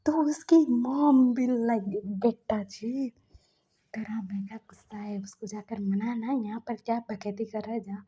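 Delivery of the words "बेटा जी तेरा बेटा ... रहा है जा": mock-stern mother. Mother shooing her son to go make up, hushed scolding. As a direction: hush him off to fix it.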